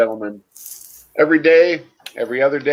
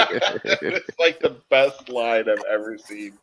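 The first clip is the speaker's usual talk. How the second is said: laughing; 5 dB quieter, slower than usual. Real, not acted. Still laughing after the joke.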